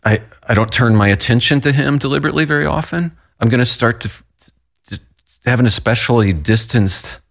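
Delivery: halting, with false starts and restarts; stammering. Real, not acted. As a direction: stumble over the words, searching for them. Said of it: "I'm sorry that I'm stammering a little bit here".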